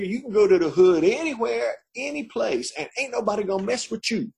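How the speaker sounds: a hint of the street cellmate; cellmate's voice. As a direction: cellmate promising protection.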